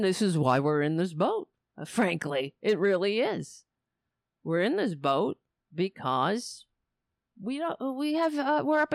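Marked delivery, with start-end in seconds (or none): none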